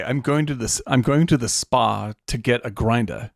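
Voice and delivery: lightly put-on Boston accent, "grinder" with the R dropped. Shown as a demonstration. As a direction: say it like a Boston local, casually. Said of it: "if I say".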